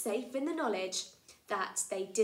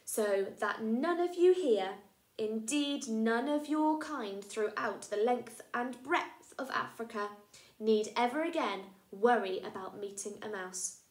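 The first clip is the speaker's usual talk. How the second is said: lightly voiced proud mouse; a mouse declaiming to the elephants; mouse character; 5 dB louder than usual. Mormo the mouse addresses the herd grandly.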